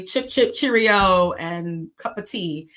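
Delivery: lightly hammed-up British accent, drawn out; mock British accent. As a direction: slowly imitate a stereotypical British accent. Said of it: "British accents, they're gonna be".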